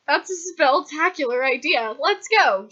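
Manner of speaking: high, loud burst of enthusiasm; gleeful excitement. Acted. Hex cheers the cafeteria idea, gleeful excitement. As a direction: cheer it out, rising in volume. Hex delighted by the nectar plan.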